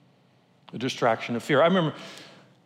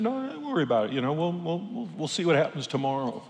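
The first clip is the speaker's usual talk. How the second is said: calm him down quietly; hushed guide brush-off; 2 semitones higher, 5 dB quieter than usual. Retold or imitated.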